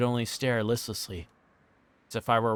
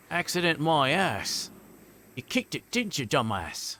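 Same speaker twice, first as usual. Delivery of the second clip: Cockney thug; 4 semitones higher than usual. A narrator's reading. Angry biker answering an apology, mock Cockney accent. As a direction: accuse in a put-on Cockney accent. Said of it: "gonna say Cockney".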